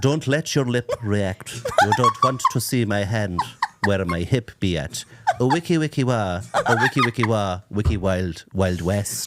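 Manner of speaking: very slow, measured recital of rap lyrics; poetry reading. Shown as a demonstration. Showing the co-host how rap sounds as Irish poetry, slow recital. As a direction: recite it slowly, like a poem. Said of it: "sounds like I'm reading poetry".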